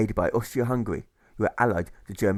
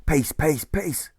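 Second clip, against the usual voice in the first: mock shout; 4 semitones higher, much slower than usual. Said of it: "they shout across this square".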